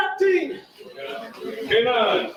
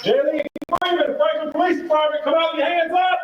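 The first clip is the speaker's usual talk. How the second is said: through a megaphone; 7 semitones higher than usual. Real, not acted. Police calling suspect out.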